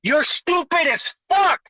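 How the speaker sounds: angry yelling, pitch up; loud sharp voice. Real, not acted. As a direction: shout him down. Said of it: "Dude, why are you yelling".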